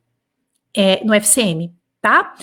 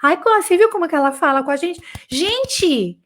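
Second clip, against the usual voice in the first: mock victim whine; 3 semitones higher than usual. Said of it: "não adianta se vitimizar".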